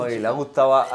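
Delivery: normal talking voice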